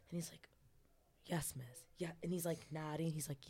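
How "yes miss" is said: low, hushed imitation of meek obedience; submissive whisper. Client answering his mistress on all fours, submissive whisper.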